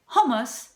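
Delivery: hummus as HOME-us with a plain h; simplified pronunciation. Shown as a demonstration. Cook offering the easier version, rounded pronunciation. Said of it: "just say".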